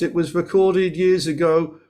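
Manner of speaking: usual speaking voice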